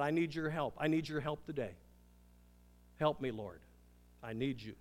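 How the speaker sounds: a pleading prayer that sinks low and soft; humble prayer. Pretend. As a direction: quietly ask God for help. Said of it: "crying out to God, saying".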